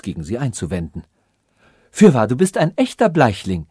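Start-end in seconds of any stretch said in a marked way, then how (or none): 1.9-3.7 louder, triumphant exclamation; princess calling out. Acted. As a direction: declare it with royal certainty. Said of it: "rief Kristalla".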